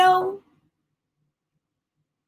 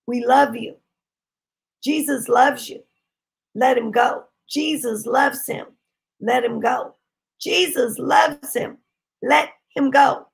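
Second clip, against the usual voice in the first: tender insistence; 2 semitones lower than usual. Retold or imitated. Retelling loving words spoken over possessed boy.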